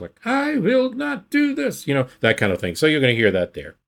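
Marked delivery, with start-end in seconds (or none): 0.3-1.9 put-on high-pitched, slow, firm Mid-Atlantic accent; Theodore Roosevelt. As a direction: stretch it out in a high upper-class Mid-Atlantic voice. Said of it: "very firm, but a little bit middle Atlantic".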